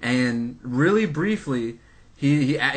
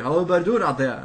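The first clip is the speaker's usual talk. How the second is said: put-on Cajun accent; 2 semitones higher, faster than usual. Quoting the actor greeting the convention crowd, imitated Cajun accent. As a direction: put on a light Cajun twang. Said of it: "he said it in the Cajun accent".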